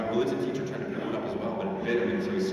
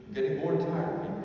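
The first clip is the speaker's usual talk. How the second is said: higher-pitched mild whining; bored complaint; 6 semitones higher than usual. Acted. Impatient believer grumbles to Jesus while fishing, whining.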